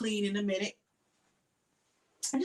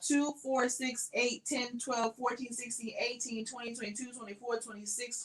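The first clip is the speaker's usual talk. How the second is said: counting under breath; 2 semitones higher, 7 dB quieter than usual. Real, not acted. Counting bins under her breath.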